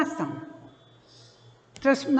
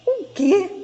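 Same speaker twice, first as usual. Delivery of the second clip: higher-pitched, startled question; mildly alarmed "what?"; retold surprise; 7 semitones higher, 3 dB louder than usual. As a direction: replay a startled reaction to bad news. Startled reply to phone news.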